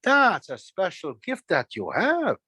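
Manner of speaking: slow, lingering praise; buttering them up. Acted. Trickster buttering up birds about their gift, flattering. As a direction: stretch out the compliment to win trust. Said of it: "I was really buttering them up".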